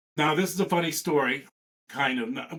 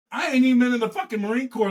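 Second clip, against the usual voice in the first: excited boast; 8 semitones higher, 5 dB louder than usual. Real, not acted. Boasting about early deployments.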